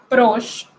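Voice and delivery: "proche" ending on the "sh" sound; silent final E. Shown as a demonstration. Teacher showing the rule, silent final E. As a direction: say "proche" as "prosh", no final vowel. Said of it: "La E final no se pronuncia".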